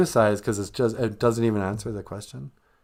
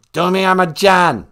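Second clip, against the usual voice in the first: loud, higher, harsh declaration; abrasive; 5 semitones higher, 8 dB louder than usual. Shown as a demonstration. Showing how Bengali says love, abrasive. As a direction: belt it out slowly and abrasively. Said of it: "Not so abrasive".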